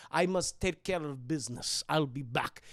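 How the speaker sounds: slightly low, lightly voiced menace; a hint of a cold killer; cold girl villain. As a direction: announce grim business calmly. Esther leaves to finish killing.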